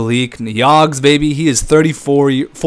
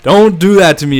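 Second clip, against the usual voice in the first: rattled outburst; 5 dB louder than usual. Real, not acted. Team nearly blows lead.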